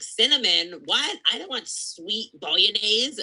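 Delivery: high, mocking disbelief from Americans; mock-outraged American; incredulous Americans. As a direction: squeal like a horrified American. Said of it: "they're like".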